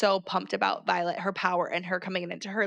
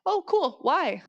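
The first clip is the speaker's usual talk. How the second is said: mock eager question; 7 semitones higher, slower than usual. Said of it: "Ask one question".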